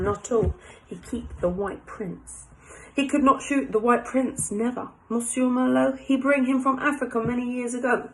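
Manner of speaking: French café owner, broken English; French accent. Acted. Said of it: "My French accent's coming out again".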